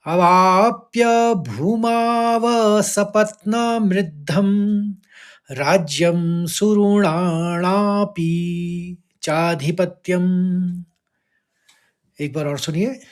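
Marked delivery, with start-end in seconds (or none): 0.0-10.8 slow, measured Sanskrit chant; slow verse recitation. Shown as a demonstration. Teacher reciting the verse to students, slow and measured. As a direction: recite the shloka slowly and evenly.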